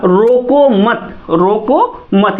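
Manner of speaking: slow, drawn-out "रोको मत" with a stop after "मत"; pause after मत. Shown as a demonstration. Teacher marks where to halt, slow "रोको मत" then pause. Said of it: "जहाँ हम लोग ठहराव करेंगे".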